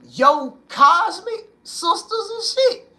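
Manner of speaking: squeaky high laughing cry, slow. Real, not acted. Praising the goddesses to his viewers, laughing high. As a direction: crack up while you call them out.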